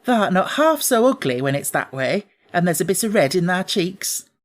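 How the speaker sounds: put-on a blunt, kindly country girl praising the child; Martha the maid.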